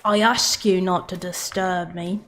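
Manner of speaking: a hint of the Dung Eater's accent. Fan quoting a game villain, lightly imitated accent. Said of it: "the accent that the dung eater guy has".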